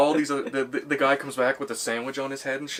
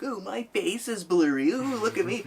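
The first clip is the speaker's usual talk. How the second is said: mocking passerby voice; 9 semitones higher, 4 dB louder than usual. Comedian mocks a blurry-faced passerby, high mocking squeal. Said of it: "so he's like".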